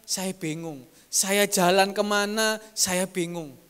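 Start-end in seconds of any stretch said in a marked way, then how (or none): 1.1-2.6 slow, louder, lost; slow dazed. Acted. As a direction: drag it out, bewildered. Preacher repeats confused question. (pelan dan bingung)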